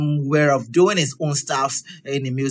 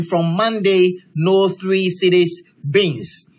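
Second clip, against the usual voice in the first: slow read-out; 2 semitones higher, slower than usual. Shown as a demonstration. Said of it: "photo of the day with an inscription".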